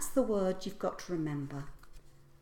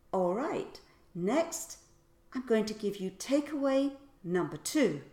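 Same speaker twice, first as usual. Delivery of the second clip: cueing announcement; 2 semitones higher, 4 dB louder than usual. Shown as a demonstration. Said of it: "warn your audience to pay attention".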